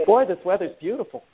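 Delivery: light, joking American accent; American accent, amused. Shown as a demonstration. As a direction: do a playful American take, half laughing. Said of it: "That's my American accent".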